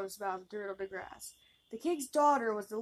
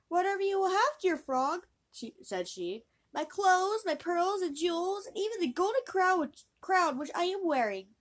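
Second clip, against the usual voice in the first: high, eager, louder princess; 8 semitones higher, 4 dB louder than usual. Acted. Princess offers the frog her jewels, high and eager. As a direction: eagerly offer everything you own.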